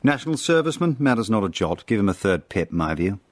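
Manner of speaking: a hint of a blustering army captain; pompous captain. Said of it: "a captain was heard to say".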